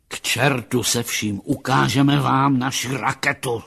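roaring captain. Acted. Captain loses patience with the psychologist, mildly shouted anger. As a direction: push it out forcefully, only half a roar. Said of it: "zařval kapitán".

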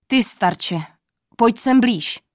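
loud summoning call; king calling out. Acted. King summons the old man, loud call. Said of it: "zvolal, až les se třás".

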